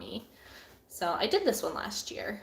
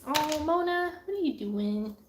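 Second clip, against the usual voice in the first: pet talk; 4 semitones higher than usual. Real, not acted. Talking to her cat.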